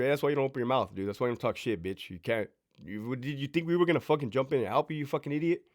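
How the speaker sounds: hushed, scornful telling-off; quiet scolding. Retold or imitated. The crew tells the youngster off, in a hushed scornful scolding. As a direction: lecture him low and contemptuous.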